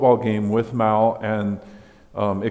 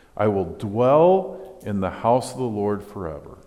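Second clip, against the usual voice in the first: plain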